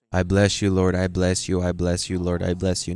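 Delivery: monotone, low repeated blessing; mechanical, droning prayer formula; rote praying. Shown as a demonstration. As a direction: drone the blessing on without a break. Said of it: "No, not like that".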